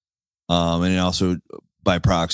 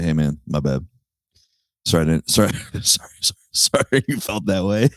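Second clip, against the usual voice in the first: passive aggressive apology. Retold or imitated.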